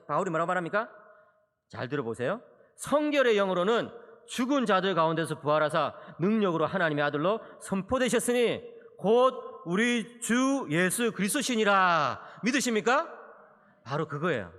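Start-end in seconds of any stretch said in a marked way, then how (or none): 2.8-12.2 slow, weighty reading of the verse; solemn scripture reading. Acted. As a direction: lay out each word slowly. (천천히 장엄하게 성경 낭독)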